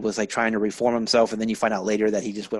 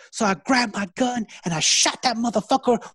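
much higher, louder camp teacher reading the gangster book through laughter; campy teacher voice; 12 semitones higher, 6 dB louder than usual. Retold or imitated. Teacher reading the gang book aloud, high and campy. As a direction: ham up the flamboyant teacher voice. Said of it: "the feminine flavor that he had".

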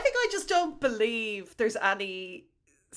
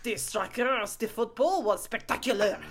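put-on French-accented match verdict; French football manager. Manager praising the football, in French accent. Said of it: "nothing gets said about spectacular".

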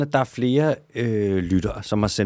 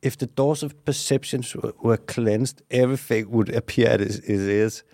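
quoting poet in English. Retold or imitated. Cohost hears a poet's line, quoted with mock gravity. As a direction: recite the line like a profound poet. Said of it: "Han har sagt".

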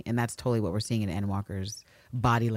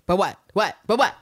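high, rapid-fire mock interrogation; imitated shouting; 9 semitones higher, 6 dB louder than usual. Ann Lister pressing for an answer, mock shouting. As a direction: hammer each question out, high and sharp. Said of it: "I get why she's shouting".

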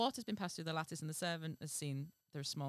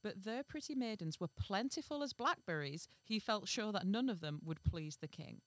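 measured fairy-tale reading; story narration; 2 semitones higher than usual. A narrator's reading. Reading a fairy tale to the co-host, measured narration. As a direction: read it out as a storyteller.

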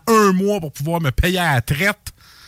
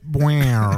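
low vocal bass pluck; bass riff mouth sound; 4 semitones lower than usual. Pretend. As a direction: hum a funky bass note like a film soundtrack. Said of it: "le petit solo de bass dans ta tête".

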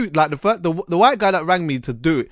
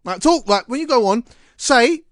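high, hammed-up DJ patter; mock radio presenter voice; 7 semitones higher than usual. Retelling the producer's coaching, hammed-up higher DJ voice. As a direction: imitate the producer demanding a radio voice. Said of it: "Say it a bit like that".

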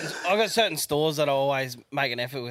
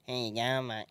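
mocking imitation; 5 dB quieter than usual. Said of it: "Like, trying to mock it".

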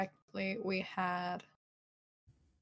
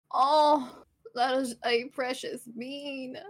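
gushing; 4 semitones higher, 4 dB louder, slower than usual. Real, not acted. Cooing over friend's fluffy cat.

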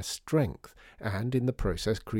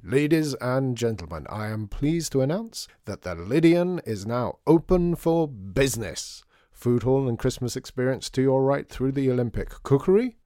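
grand announcer; 2 semitones higher, 4 dB louder than usual. Acted. Artie opens the store.

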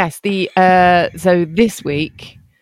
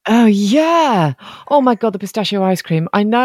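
normal talking voice

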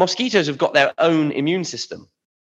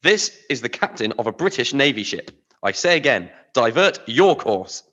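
stern order. Acted. British captain repeats order.

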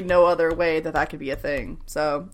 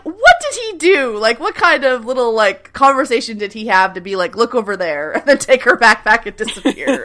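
laughing disbelief; 4 semitones higher, 6 dB louder than usual. Retold or imitated.

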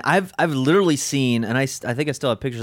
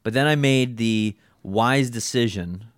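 sarcastic; slower than usual. Real, not acted. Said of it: "I'm saying that sarcastically".

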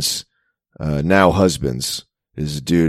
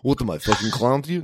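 Joe Pesci impression; 5 semitones higher, 5 dB quieter, faster than usual. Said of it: "He's not your Joe Pesci".

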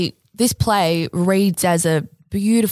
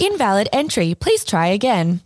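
robot voice. Acted. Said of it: "can I do a robot voice?".

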